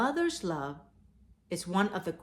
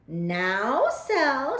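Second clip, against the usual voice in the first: louder, gently scolding mother; mother's voice; 6 semitones higher, 8 dB louder than usual. Acted. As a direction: call to the child behind you. Mother speaks to her child.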